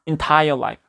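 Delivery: "entire life" with the start of entire rushed past; "entire life" with a barely-there first syllable in entire; quick unstressed first syllable. Shown as a demonstration. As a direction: glide fast over the start of "entire", landing on the stressed part. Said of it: "여기 엄청 빨리 지나가서".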